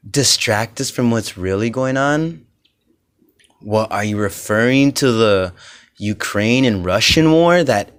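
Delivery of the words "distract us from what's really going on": incredulous echo. Real, not acted. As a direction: repeat it back in disbelief.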